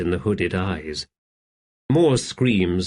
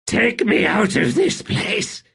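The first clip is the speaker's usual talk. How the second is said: high desperate shout; terrified emperor shouting to his slave; desperate plea; 12 semitones higher than usual. Acted. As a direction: cry out to be taken away. Rulad begs in terror.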